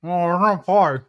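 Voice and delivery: talking around a spoon in mouth; words muffled by a spoon in mouth. Real, not acted. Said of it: "with a spoon in your mouth".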